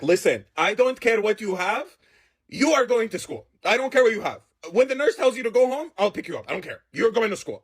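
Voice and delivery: mildly acted no-nonsense mother; imitated firm, emphatic parental order; stern mom. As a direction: lay down the law like a fed-up mom. Fed-up mom orders child to school.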